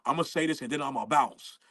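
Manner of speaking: low, deadpan radio call-out; mock a solemn announcement, pitched well down; low-voiced mock declaration with weighty pauses; a rapper. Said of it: "he goes to the radio, start talking about".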